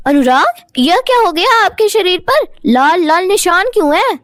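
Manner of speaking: a touch of concern, voice lifted; worried wife. Acted. Sita sees the rashes.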